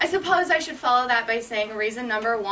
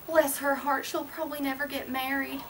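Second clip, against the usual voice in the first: put-on southern accent; 6 dB quieter than usual. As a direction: imitate a mother in a mild Southern accent. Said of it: "I gave my mom a southern accent".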